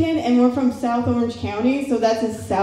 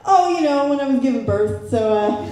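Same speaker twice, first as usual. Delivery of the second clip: evasive mom; 3 semitones higher, 3 dB louder than usual. Retold or imitated. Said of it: "she tried to change the subject".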